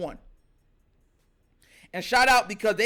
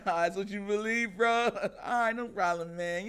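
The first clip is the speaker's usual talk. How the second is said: smiling calm; 5 dB quieter than usual. Retold or imitated. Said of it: "He'll smile like".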